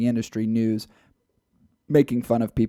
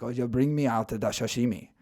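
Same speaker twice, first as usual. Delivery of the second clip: lightly hammed-up Asian accent; a jokey put-on Asian accent; mock Asian accent. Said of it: "It's like".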